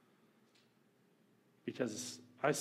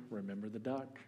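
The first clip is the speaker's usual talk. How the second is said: soft, knowing whisper; 4 semitones lower, 9 dB quieter than usual. A narrator's reading. Sister reminding Johnny of the duck, soft whisper. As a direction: murmur the reminder under her breath. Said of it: "she whispered".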